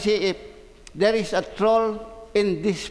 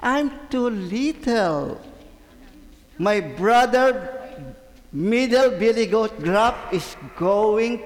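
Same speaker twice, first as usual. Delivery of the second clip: pleading little goat; 2 semitones higher, slower than usual. Acted. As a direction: beg drawn-out as a scared little goat. Little goat begs the troll.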